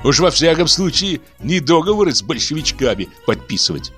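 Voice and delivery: heavy irony. Acted. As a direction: sneer with a smirk. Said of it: "усмехнулся с ещё большей иронией".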